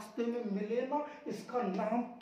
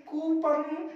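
loud wrong coupon; 4 semitones higher, 5 dB louder, much slower than usual. Shown as a demonstration. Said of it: "इसको हम लोग कूपन पढ़ते आए हैं".

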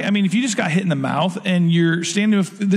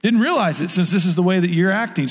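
sarcastic; 3 semitones higher than usual. Retold or imitated. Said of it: "he was being sarcastic".

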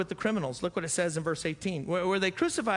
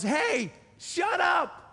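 sharp rebuke; 12 semitones higher, 4 dB louder, much slower than usual. Retold or imitated. Other thief rebukes the mocker.

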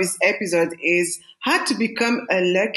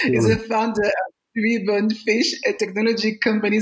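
laughing through words; 3 semitones higher than usual. Real, not acted. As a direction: talk while still laughing. Still laughing after accent joke.

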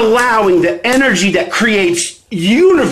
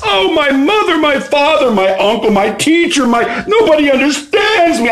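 lightly whiny, higher-pitched griping; mock complaint; 5 semitones higher than usual. Coach mimicking people who feel nobody gets them, mock complaining. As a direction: act out a self-pitying moan.

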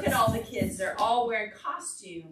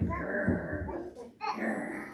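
leopard growl. Pretend. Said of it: "You're like".

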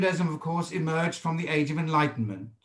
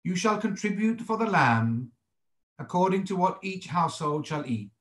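higher, measured reading aloud of scripture; 3 semitones higher than usual. Acted. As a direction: read the verse out formally, pitched up, phrase by phrase.

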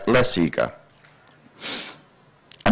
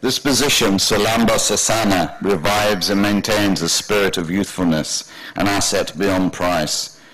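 grand, slightly raised reading from a book; declaiming. A narrator's reading. Boy reads the yoga book aloud to Dad, declaiming. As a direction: proclaim each line as if on stage. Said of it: "I declaimed".

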